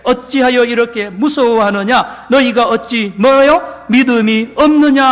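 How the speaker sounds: Jesus scolding his frightened disciples; angry rebuke. Acted. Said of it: "버럭 화를 내십니다".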